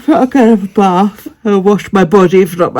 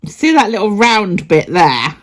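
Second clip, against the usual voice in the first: laughing while tickling; 5 semitones higher than usual. Real, not acted. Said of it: "it's apparently really ticklish".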